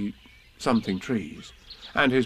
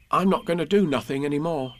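put-on higher-pitched little boy's voice; confiding child; 6 semitones higher than usual. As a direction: break the news as a small boy. Boy confides in his bear.

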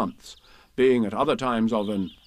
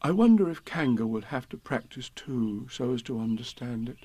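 lightly voiced Pooh, musing.

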